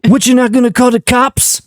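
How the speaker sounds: a hint of a dumb kid; young Frank Dukes. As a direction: ask it dimly, rising. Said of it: "Just do the cops one".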